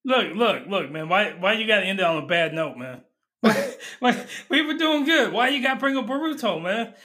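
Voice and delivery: high, laughing complaint; laughing protest. Real, not acted. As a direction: plead through laughter. Friend brings up hated show.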